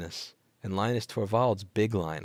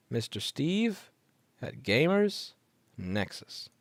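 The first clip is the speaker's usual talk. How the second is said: sing-song announcing; 4 semitones higher, much slower than usual. Real, not acted.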